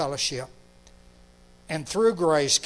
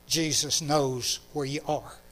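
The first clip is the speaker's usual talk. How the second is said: put-on gentle child's wording; 3 semitones lower, 4 dB quieter than usual. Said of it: "as clearly as that little girl said it".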